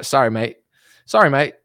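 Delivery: amateur Australian accent, trying it out; imitation Aussie greeting voice. Shown as a demonstration. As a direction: have a go at sounding Aussie. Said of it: "trying to get my Australian accent down".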